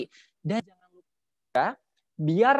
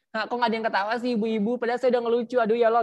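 higher-pitched mock complaint to the audience; protes pura-pura; 4 semitones higher, faster than usual. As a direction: playfully scold them for not laughing. Acts mock complaint to silent audience. (protes bercanda dengan nada lebih tinggi)

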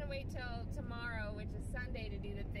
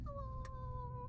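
much higher, lightly voiced pup greeting; a hint of a puppy saying hi; puppy's hello; 11 semitones higher than usual. Owner voicing puppy Frankie's hello, lightly high.

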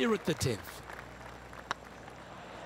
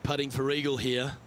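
golf commentator; 8 dB quieter than usual. Acted. Live golf broadcast call.

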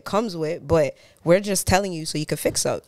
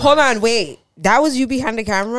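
surprised; 6 semitones higher, 6 dB louder than usual. Real, not acted. Learns host filmed viral video.

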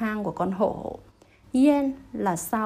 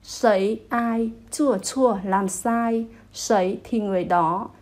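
slow gloss; slower than usual. Shown as a demonstration. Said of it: "là gánh chịu cái trách nhiệm".

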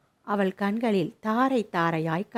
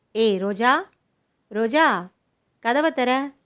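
loud call through a closed door; 4 semitones higher, 6 dB louder, slower than usual. Acted. Grandmother calling Roja through the locked door, loud. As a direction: shout her name so she opens up.

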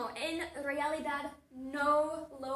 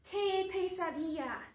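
mild, slightly raised exclamation; mock yell; 4 semitones higher, 3 dB louder than usual. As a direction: act out a half-hearted cry. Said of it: "¿quién grita". (grito fingido, a media voz)

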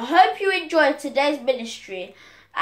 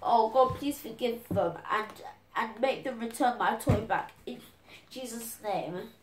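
quiet prayer; 7 dB quieter than usual. Pretend. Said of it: "start praying for them, saying".

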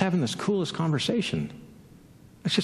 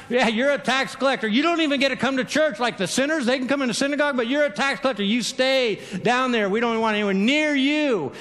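higher-pitched, dismissive put-down; hammed-up contempt, pitched up; mock scorn; 4 semitones higher than usual. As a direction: shoo away an outcast. People scorning a tax collector.

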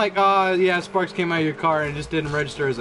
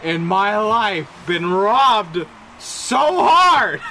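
laughing disbelief; 4 dB louder, much slower than usual. Real, not acted. Just got robbed in game.

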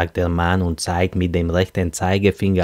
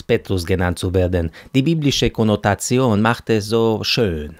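lightly voiced man, lively and often higher; talkative Arab matchmaker; 3 semitones higher than usual. Petrus corrects the young woman, genial chatter. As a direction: insist genially on the name.

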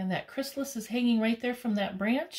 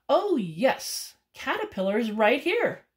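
hummingbird voice; 4 semitones higher, 5 dB louder than usual. Acted. Hummingbird answers.

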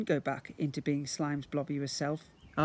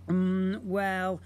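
hesitant; 4 semitones higher, 5 dB louder than usual. Acted. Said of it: "hesitated Ned".

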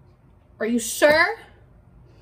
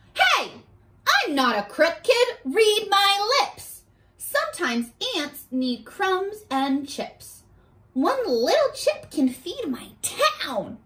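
slow, lightly sing-song ant voice; ant's retort; 4 semitones higher than usual. Acted. Ant telling the kid he is not a crook, slow and sassy. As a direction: sass the kid slowly. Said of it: "The ant says".

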